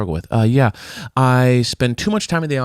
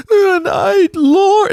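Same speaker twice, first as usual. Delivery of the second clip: theatrical pastor praying, very high and loud; sudden hammed-up falsetto prayer; 7 dB louder, much slower than usual. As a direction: wail it to heaven like a showy preacher. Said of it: "she's doing an impression of a pastor".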